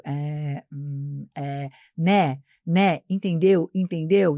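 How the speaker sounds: mock hesitant filler words, low hums with pauses between; demonstrating verbal tics. Shown as a demonstration. Teacher shows Mateus the language vices to avoid, mock halting fillers. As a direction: act out a speaker stuck on filler words. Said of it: "imagina que eu tô aqui falando com você, eu fico".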